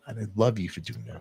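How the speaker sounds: whispered thanks to a loyal fan; tender whisper. Real, not acted. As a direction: breathe it to her like a secret.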